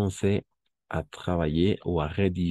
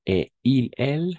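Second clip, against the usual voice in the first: louder, higher Et il, elle; loud prompt; 7 semitones higher, 5 dB louder than usual. Shown as a demonstration. Teacher prompting students for the third person form. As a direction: call for the answer. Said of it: "prompting students to answer".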